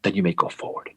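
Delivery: understated, low, calm order; calm command. Retold or imitated. Jackson giving Rhodes the order to advance, calmly. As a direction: give the go-ahead quietly composed. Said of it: "Jackson just calmly says".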